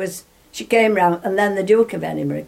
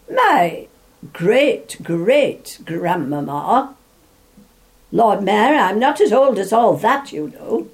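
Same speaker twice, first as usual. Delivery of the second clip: the Queen quoted in a raised, amused voice; playful retort; 2 semitones higher, 5 dB louder, slower than usual. Retold or imitated. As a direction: tease the Lord Mayor, amused. Retelling the Queen's jokey retort.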